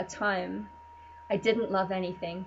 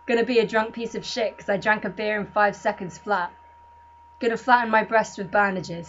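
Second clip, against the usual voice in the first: loud, defiant spoken-word rant; 6 dB louder than usual. Acted. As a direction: shout it like a punk poem. Ranting spoken-word poem.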